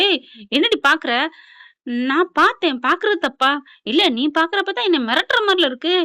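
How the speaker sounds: hammed-up squabble between in-laws; mock quarrel. Acted quarrel between women.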